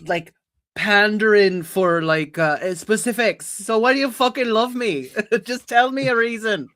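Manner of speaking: high, insistent plea edged with laughter; self-mocking, pleading partner. Plays a character asking why they are loved.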